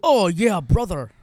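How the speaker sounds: stiff robotic Hulk Hogan catchphrase; like a wrestler turned machine. Retold or imitated. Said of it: "In a robot voice".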